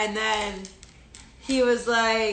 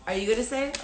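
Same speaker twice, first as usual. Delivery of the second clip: nervous asking; much faster than usual. Retold or imitated. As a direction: imitate one nervous lover prompting the other. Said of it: "both of us are like".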